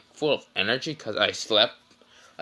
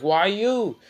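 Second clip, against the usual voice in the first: mock outrage; 8 semitones higher than usual. Kankuro about to punch Naruto.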